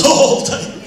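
eager mock wife. Husband imitates wife saying yes to extras, eager. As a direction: grab at the offer happily.

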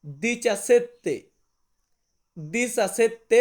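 slow দিচাসেত্তে, every syllable spelled out; Italian word demo. Shown as a demonstration. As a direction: drag out দিচাসেত্তে for learners. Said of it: "সতেরোকে আমরা Italian ভাষাতে বলবো".

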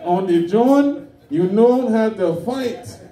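put-on slow, emphatic African-accented declaration; African dad accent. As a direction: imitate an African father proudly explaining himself. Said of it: "He, he said".

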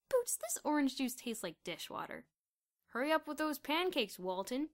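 loud mocking schoolboy; jeering classmate. A narrator's reading. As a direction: taunt the busboy loudly.

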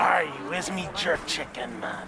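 put-on jokey Jamaican pirate accent, lightly done; mock Jamaican pirate. Teasing friends in the store, mock Jamaican pirate accent. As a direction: plays a Jamaican pirate for laughs. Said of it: "he sounds like a Jamaican pirate".

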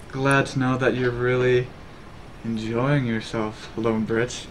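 slow, low, soft seductive drawl; sultry mistress. Pretend. Streamer playing to chat on request, sultry. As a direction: play the sultry mistress, lingering on each phrase. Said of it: "back to the sultry mistress".

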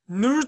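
ぬる said as a demonstrated ancient syllable; reconstructed pronunciation. Shown as a demonstration. Lecturer showing how 中 was pronounced, demonstrated pronunciation. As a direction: sound out ぬる with a rolled-together n and r. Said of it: "ぬるって発音になってる".

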